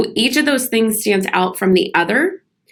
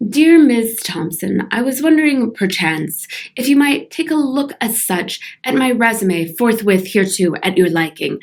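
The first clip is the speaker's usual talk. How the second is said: olde speech; 2 semitones higher than usual. Retold or imitated. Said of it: "I get emails that sound like this".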